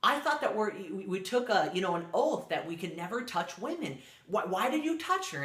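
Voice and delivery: lightly acted shocked protest; shocked student. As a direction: retell a student's disbelief, pitch lifting on the questions. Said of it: "the student right away is just in shock".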